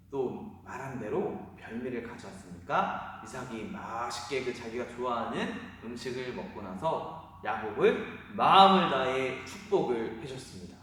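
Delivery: ordinary talk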